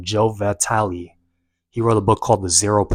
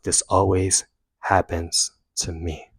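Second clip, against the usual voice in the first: mild, slow self-pity; sorry for yourself, slowing down; 3 semitones lower, 3 dB quieter, slower than usual. Retold or imitated. Runner to himself mid-run, mildly self-pitying. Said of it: "started to feel sorry for myself".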